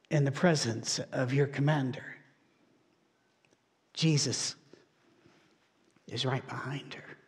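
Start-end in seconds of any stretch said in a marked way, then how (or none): 3.9-7.2 hushed whisper. Acted. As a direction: drop to a whisper, much softer. Preacher hushes for Jesus' presence.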